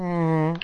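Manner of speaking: sly little mock parp; imitated fart noise. Shown as a demonstration. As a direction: make a short fart sound with the voice. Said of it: "just make the sound".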